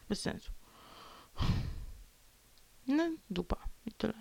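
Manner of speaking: a high unvoiced whisper. Real, not acted. Vlogger whispering her frustration to the camera. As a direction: hiss out the defeat.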